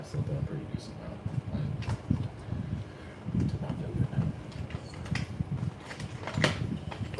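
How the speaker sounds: talking around a wad of gum; chewing gum. Real, not acted. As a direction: chew gum while you speak. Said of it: "You have gum in your mouth".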